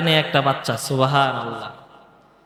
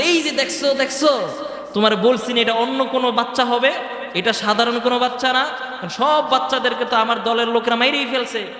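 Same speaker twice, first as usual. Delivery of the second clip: higher-pitched mock outburst from Pharaoh; agitated yelling; 4 semitones higher than usual. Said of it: "চিৎকার দেয়া চেঁচামেচি কইরা বলতেছে".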